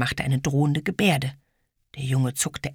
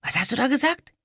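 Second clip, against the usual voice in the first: challenging; 11 semitones higher, faster than usual. Acted. Ede challenges boy.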